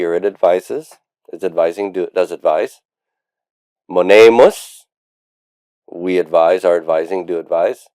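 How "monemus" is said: "Monemus" louder, drawn out, rising at the end; recitation for repetition. Shown as a demonstration. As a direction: model the word for a class to echo. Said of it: "You can repeat after me".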